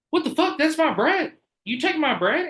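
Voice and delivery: high, squeaky indignant manager voice; hammed-up high-pitched manager; mocking angry manager. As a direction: whine it like an outraged boss claiming his bread. Imitating angry manager in story.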